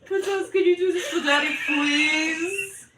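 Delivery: coaxing daddy voice, laughing through; mock-sweet creep, barely holding the laugh; sleazy daddy voice. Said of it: "Can you talk in that voice all the time?".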